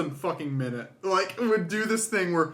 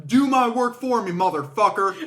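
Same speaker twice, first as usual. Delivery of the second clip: mild mock yell, pitched up; retold scream; 3 semitones higher, 3 dB louder than usual. Friend quoting Alex yelling at a skeleton, half-scream. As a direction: imitate a frustrated gamer's outburst. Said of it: "and Alex screams".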